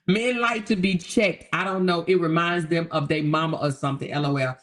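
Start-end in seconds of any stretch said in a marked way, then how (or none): 0.0-1.5 giggling through the line, slowed; laughing. Real, not acted. Repeating a viewer's comment to chat, laughing.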